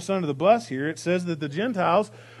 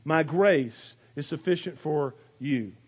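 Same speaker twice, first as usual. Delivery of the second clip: "My grace is sufficient for you" said slowly and a little lower, letting each word ring; slow, ringing delivery; 4 semitones lower, slower than usual. Shown as a demonstration. Pastor savouring the verse that rings for him, slow and resonant. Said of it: "it just rings".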